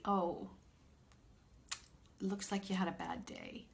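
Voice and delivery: mother gently comforting her son; gentle. Retold or imitated. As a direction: say it kindly to an upset child. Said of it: "And I would very gently say".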